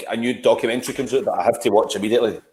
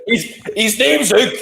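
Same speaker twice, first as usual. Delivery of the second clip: giggling disbelief, pitched up; laughing at the Hugh story; 8 semitones higher than usual. Real, not acted.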